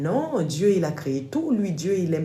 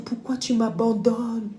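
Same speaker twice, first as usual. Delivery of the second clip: siren's plea; 7 semitones higher, slower than usual. Retold or imitated. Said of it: "elle a commencé à dire".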